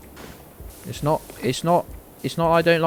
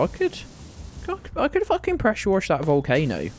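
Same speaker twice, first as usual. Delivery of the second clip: gleeful boast; 5 semitones higher than usual. Acted. Gamer boasting to chat, giddy and high-pitched. Boasting about power washer.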